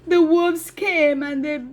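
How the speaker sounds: a lightly voiced boy pleading, slow; shepherd boy pleading with the villagers, slow; boy's plea. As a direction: slowly plead as the upset little boy. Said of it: "the boy said".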